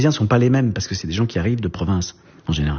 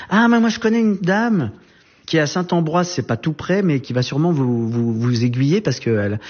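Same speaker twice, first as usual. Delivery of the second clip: much higher, excited helpful neighbour voice; helpful lady; 7 semitones higher than usual. Retold or imitated. Lady at the door offering the student a lead, high and eager. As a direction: pipe up high with a sudden helpful idea.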